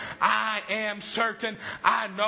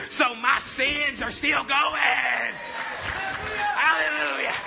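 slow joyful shout; 5 semitones higher, much slower than usual. Retold or imitated. Father exulting, slow.

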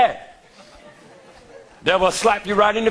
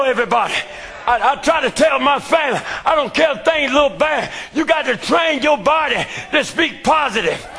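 full-force preaching; 3 semitones higher than usual. Acted. Preacher testifying to his church in full-force sermon cadence. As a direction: preach it like the climax of a revival.

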